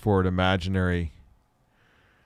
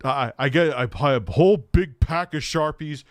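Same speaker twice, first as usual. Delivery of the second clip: higher-pitched, mock-earnest sarcastic admission; sarcastic confession; 5 semitones higher than usual. Streamer imitating a sarcastic answer to a silly question, sarcastic. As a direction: play up a sarcastic confession, voice lifting as it goes. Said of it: "he actually answered it sarcastically".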